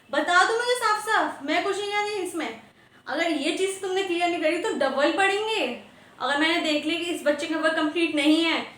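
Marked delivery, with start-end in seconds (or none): 0.1-4.7 stern warning. Acted. Teacher warns class to confess.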